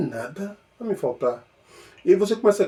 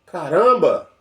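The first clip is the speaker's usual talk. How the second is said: mild wonder; 2 semitones higher, 3 dB louder, slower than usual. Pretend. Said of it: "a pessoa fala".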